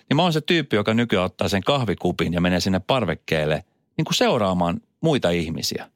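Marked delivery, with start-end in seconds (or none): 5.0-5.9 whisper. Real, not acted. Joking confession about watching people.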